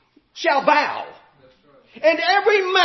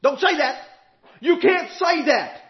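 mock holler. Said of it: "people hollered".

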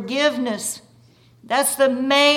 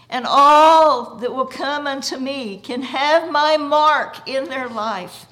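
proclaiming Jesus; 3 semitones higher, 6 dB louder than usual. Acted. Jesus declares himself alive to doubting Thomas, solemn building proclamation. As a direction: declare it to all, rising in force.

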